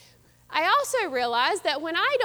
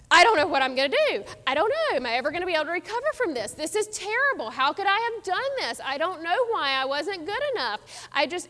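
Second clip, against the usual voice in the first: put-on panicked kid; faster than usual. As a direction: blurt it out like a frightened kid who failed a test. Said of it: "he is freaking out".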